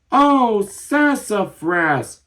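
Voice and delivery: high, slow, stretched cry; cried out. Acted. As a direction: wail it out long and high. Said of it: "cried Stanley Skunk".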